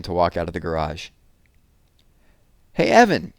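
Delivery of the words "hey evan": much higher and louder call. Acted. Jessie calls after her brother walking away, much higher and louder. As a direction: call after the departing boys. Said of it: "Jessie called to their backs".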